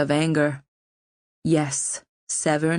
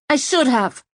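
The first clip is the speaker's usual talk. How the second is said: higher and louder, landing hard on should; furious repeat; 9 semitones higher, 4 dB louder than usual. A narrator's reading. Poisoner repeating her regret, furiously emphatic. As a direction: hit "should" hard and high with fury. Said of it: "She shook her head furiously".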